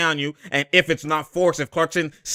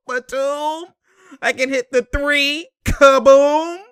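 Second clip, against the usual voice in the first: higher, mocking player voice; bragging player voice; 11 semitones higher, 3 dB louder, slower than usual. Voicing Batum boasting about his three, higher. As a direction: brag like the shooter.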